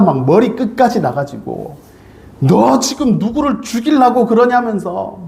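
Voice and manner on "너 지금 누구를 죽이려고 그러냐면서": pitched higher, retelling an angry scold; mock scolding. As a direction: playfully voice a furious friend. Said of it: "막 야단을 치고 험담을 하면서". (높은 목소리로 흉내 내는 호통)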